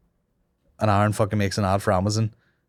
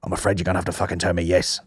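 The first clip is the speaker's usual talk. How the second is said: quoted film line; 4 semitones lower, 3 dB quieter, faster than usual. Retold or imitated. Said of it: "My favorite quote of all time".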